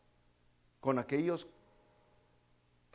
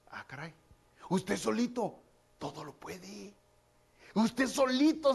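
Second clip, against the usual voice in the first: a hushed, amazed aside to God; 5 semitones higher, slower than usual. Retold or imitated. Voicing a praying believer's realization.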